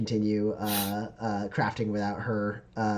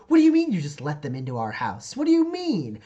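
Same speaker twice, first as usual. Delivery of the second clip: high, loud, frantic protest; panicked accusing shout; upset shouting; 14 semitones higher, 4 dB louder than usual. Acted. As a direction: yell at the neighbours who let strangers in. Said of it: "you can kinda hear her".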